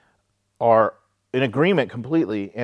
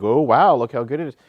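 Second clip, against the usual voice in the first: mock phony compliment; 3 semitones higher, 4 dB louder than usual. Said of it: "a phony compliment".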